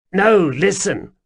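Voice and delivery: high, loud jittery stranger; pleading, flustered little man; nervous odd man voice. A narrator's reading.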